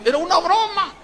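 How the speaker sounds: hammed-up squeak of alarm; panicked protest. Preacher sees organizer repenting over his joke, high panicked squeal.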